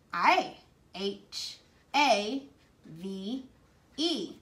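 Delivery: spelling H A V E letter by letter; name each letter of "have" slowly, apart. Shown as a demonstration. Teacher spelling the word aloud for kindergartners. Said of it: "I can easily write them".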